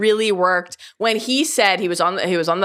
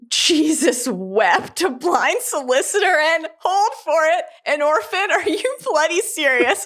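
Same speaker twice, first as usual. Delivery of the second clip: quoting Devlin; 7 semitones higher than usual. Retold or imitated. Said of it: "And then Devlin says".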